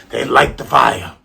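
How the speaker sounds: a touch of rap-star delivery; a rapper. Shown as a demonstration. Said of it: "why do I sound like a rapper?".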